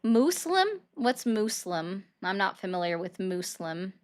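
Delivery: "Muslim" mockingly said as MOOSE-lum; mimicked mispronunciation. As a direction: echo "Muslim" slowly with an oo and a hissed s. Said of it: "making fun of my accent".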